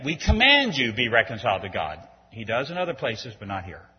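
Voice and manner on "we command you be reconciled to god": commanding proclamation; commanding shout. Shown as a demonstration. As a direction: bark it down at them like a commander. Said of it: "They don't say".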